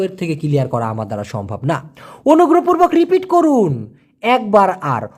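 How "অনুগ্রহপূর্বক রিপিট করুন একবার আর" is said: lifted, careful polite request with অনুগ্রহপূর্বক leaned on; formal polite request. Shown as a demonstration. Teacher modelling a formal polite plea to repeat. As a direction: ask politely to hear it once more. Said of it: "অর্থাৎ অনুগ্রহপূর্বক আর একবার repeat করুন".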